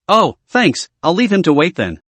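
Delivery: smiling. Acted. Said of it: "I said with a smile".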